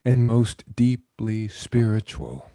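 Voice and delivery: measured guiding voice with long pauses; guided meditation. Acted. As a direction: lead them into calm, phrase by unhurried phrase.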